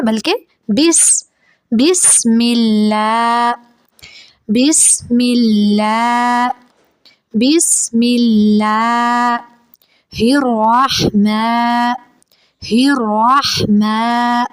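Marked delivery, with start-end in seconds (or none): 1.7-9.4 بسم اللہ slow, the س hissed steady; slow correct bismillah. Shown as a demonstration. Teacher recites بسم اللہ slowly as a model. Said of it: "سین کی آواز کو ہلائیں گے نہیں". 10.1-14.4 الرحمن with a rolled ر, slow. Shown as a demonstration. Teacher models the repeated ra sound. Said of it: "را پہ تکرار ہوگی".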